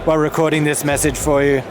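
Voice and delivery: talking while getting a massage; deep tissue massage. Real, not acted. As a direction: voice jostled by a massage. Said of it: "The reason I sound like this is because".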